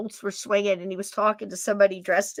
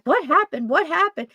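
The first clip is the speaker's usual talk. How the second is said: laughing confusion; 8 semitones higher, 4 dB louder than usual. Retold or imitated. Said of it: "I'm like".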